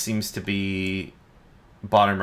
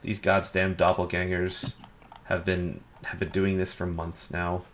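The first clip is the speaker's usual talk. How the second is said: a touch of weary exasperation; weary after sigh; 4 dB quieter than usual. Acted. Lead guard grumbling about the doppelgangers, mildly weary. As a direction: say it as if after a deep sigh, trailing softer. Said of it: "he kinda lets out a deep sigh".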